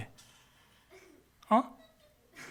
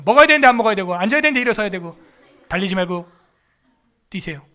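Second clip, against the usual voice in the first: mocking absurdity; 6 dB louder, faster than usual.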